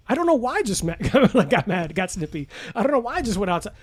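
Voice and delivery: high, laughing self-mockery; laughing at own anger. Recalling losing his temper mowing the lawn, laughing. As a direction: replay the silly outburst with a laugh. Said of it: "This is stupid".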